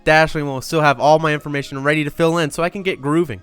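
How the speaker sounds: ad read. Acted. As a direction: pitch the product with energy. Reads the sponsor ad.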